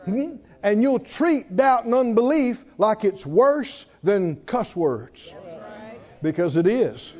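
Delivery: ordinary delivery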